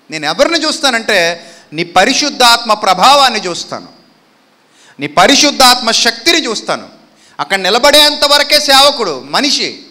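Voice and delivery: loud, driving pulpit preaching; fervent preaching. Acted. Preacher crying out to God before the congregation, fervent. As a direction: preach it with full force to the church.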